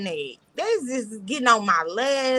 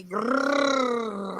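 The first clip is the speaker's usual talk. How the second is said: growl; 4 dB quieter than usual. Acted. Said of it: "What is the purr for".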